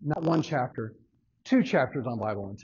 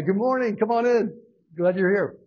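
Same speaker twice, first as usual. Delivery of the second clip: calling out greeting; 7 semitones higher, 4 dB louder than usual. Real, not acted. Greets people coming in mid-lesson.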